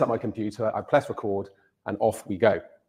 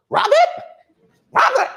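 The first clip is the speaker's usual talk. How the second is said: American wife calling out "Robert?" much higher and louder; American accent calling; 5 dB louder than usual. Retold or imitated. Wife calls her husband to the phone, loud high American call. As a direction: call him from across the house, American style. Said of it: "I'm not gonna do any more American accents".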